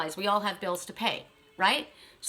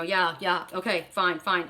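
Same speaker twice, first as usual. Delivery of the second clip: mock offhand brush-off; busy, distracted; 3 semitones lower, slower than usual. Preoccupied studio visitor answering, acted distracted indifference. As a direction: imitate someone half-listening while on the phone. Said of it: "busy on their phone".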